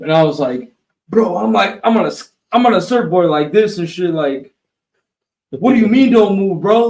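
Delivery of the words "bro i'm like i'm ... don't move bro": retelling his panic, pitch rising and getting louder; freaked-out protest, higher and louder; alarmed outburst. Retold or imitated. Surfer panicking at the instructor's warning, alarmed and raised.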